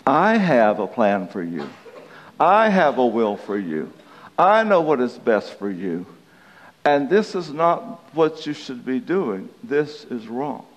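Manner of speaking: imitating God's unhurried counsel; voice of the Lord. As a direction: speak as the Lord, calmly authoritative. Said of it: "here comes the Lord, and he says".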